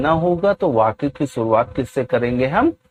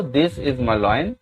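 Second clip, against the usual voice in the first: each word spaced out slowly for students to copy; very slow, deliberate classroom dictation; 2 semitones lower, 3 dB quieter, much slower than usual. Shown as a demonstration. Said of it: "teacher dictates English sentence".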